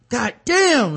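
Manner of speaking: an exasperated mock swear; frustrated curse. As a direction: groan it out like a sulking player. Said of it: "He was like".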